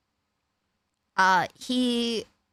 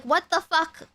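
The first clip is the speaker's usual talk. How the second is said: pitched higher, a retold shocked outburst; upset disbelief; 7 semitones higher than usual. Hearing he kissed the other woman, shocked. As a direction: throw it out in stunned disbelief. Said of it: "I was very upset".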